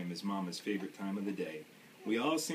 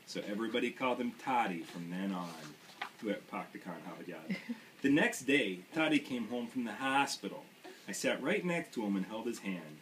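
put-on storybook read in a light Maine accent, dropped r's. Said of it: "do my best Maine accent".

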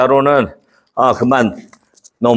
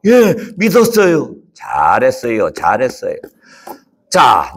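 gentle angel. Acted. 천사의 대사. (천천히 다정하게 말하는 천사)

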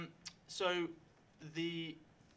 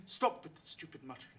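lady snapping at husband; 3 semitones higher, 3 dB louder than usual. Acted. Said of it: "smacks her husband and says".

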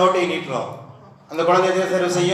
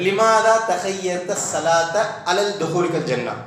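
slow Arabic recitation; much slower than usual. Shown as a demonstration.

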